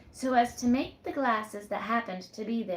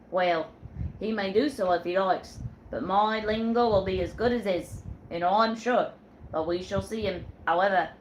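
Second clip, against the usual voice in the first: put-on a firm old sailor, a bit louder; sailor Jack; 4 dB louder than usual. Sailor Jack tells Susan who's captain, firmly. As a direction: lay down the law like a ship's captain.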